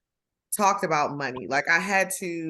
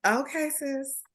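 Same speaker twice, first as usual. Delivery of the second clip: auntie voice; 6 semitones higher, slower than usual. Pretend. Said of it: "you'd be like".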